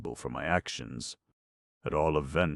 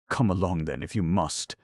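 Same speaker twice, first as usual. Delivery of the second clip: scornful tones; 2 semitones higher, 3 dB louder than usual. Acted. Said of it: "she said in scornful tones".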